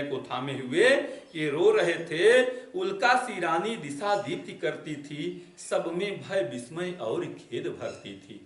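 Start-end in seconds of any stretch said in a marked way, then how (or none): 2.7-8.4 verse recited, slowing and softening at the end; poem recitation. Shown as a demonstration. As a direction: recite उल्का सी रानी like poetry. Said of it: "कहें कि उल्का सी रानी".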